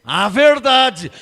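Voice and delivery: verdade drawn out slowly and held; stretched answer. Shown as a demonstration. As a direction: lay verdade down slow and heavy as the answer. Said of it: "Eles precisam conhecer o quê?". (verdade bem arrastada e lenta)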